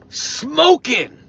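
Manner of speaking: surprised. Real, not acted. Teasing viewer about mask.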